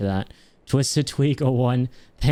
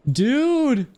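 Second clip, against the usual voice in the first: excited squeal. Real, not acted. More gifts, disbelief.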